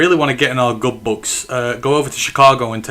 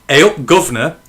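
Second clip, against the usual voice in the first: Cockney greeting; 3 semitones higher, 5 dB louder than usual. Shown as a demonstration. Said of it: "is when you're Cockney".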